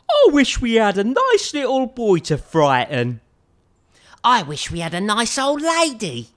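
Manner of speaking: wistful skeleton voices. Acted. Skeletons wish for a child to frighten, wistful. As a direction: sigh for someone to scare.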